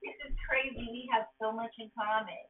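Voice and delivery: thrilled to find a match; mock gushing girl; excited. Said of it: "Cinderella's all excited".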